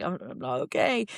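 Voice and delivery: stammered, mildly tearful admission; retold crying. Broken runner admitting it to Martin, mock tearful. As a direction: imitate yourself faltering through tears. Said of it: "I just started crying".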